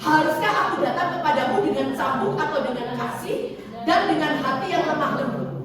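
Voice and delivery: measured group reading of the verse; reading scripture aloud together. Real, not acted. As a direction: read it out in unison with the congregation. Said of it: "Kita baca sama-sama".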